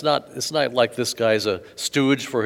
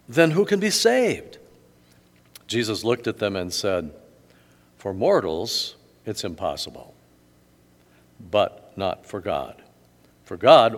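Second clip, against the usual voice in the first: measured, formal reading of the gospel; scripture reading. Acted. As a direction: read it out to the congregation with steady dignity.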